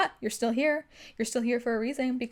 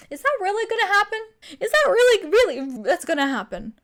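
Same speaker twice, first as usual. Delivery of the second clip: incredulous challenge; 9 semitones higher, 7 dB louder than usual. Acted. Making fun of her own anxiety, incredulous. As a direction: question it in exaggerated disbelief.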